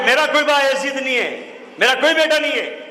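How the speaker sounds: a hint of a hard-hearted mother refusing her son. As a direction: push the son away firmly.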